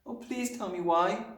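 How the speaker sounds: put-on high, imploring little girl; pleading cry. A narrator's reading. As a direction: beg your teacher for the reason. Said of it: "Matilda cried".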